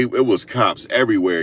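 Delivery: ordinary talk, nothing marked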